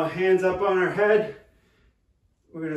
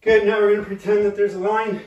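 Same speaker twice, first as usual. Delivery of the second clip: barking gym coach; 3 semitones higher, 4 dB louder than usual. Real, not acted. Coach calling out workout cues.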